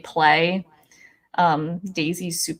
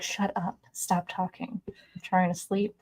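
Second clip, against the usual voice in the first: a softer, sleepy grumpy cat; voicing the cat; 7 dB quieter than usual. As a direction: shush them like a cat wanting its nap. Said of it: "She's like".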